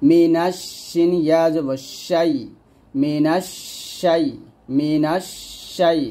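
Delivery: মিনাশ শাই split and drawn out; slow syllable drill. Shown as a demonstration. Teacher drilling মিনাশ শাই slowly. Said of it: "এরকম".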